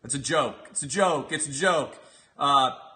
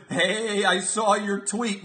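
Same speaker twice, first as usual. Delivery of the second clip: mock menacing; 6 semitones higher, 4 dB louder, much slower than usual. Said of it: "as if I'm gonna be trembling".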